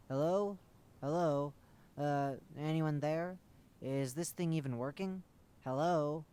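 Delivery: loud calling into the radio; loud hello into a dead line. Acted. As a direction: call out, unsure anyone hears.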